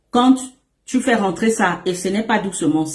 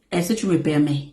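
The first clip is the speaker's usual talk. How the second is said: gentle asking; 5 semitones lower than usual. Shown as a demonstration.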